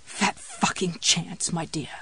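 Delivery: slow, husky near-whisper; wry self-talk. A narrator's reading. Jessie telling the empty room, wry and hushed. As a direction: mutter it slowly to yourself. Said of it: "she told the empty room".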